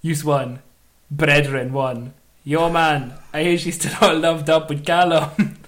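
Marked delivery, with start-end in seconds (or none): 2.4-5.6 put-on Jamaican accent. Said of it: "Try and do a shit Jamaican accent".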